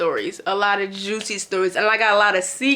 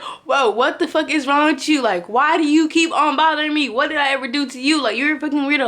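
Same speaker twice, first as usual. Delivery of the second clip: retold yelling; 5 semitones higher than usual. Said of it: "literally yelling at him".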